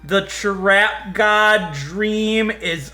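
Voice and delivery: very slow, drawn-out mourning; slow despairing lament. Real, not acted. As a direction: let each word sag with defeat. Mourning the lost Pokemon.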